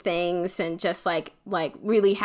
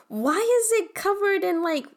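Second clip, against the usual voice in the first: put-on indignant kid; 6 semitones higher than usual. Child voice rejecting fuzzy sweater.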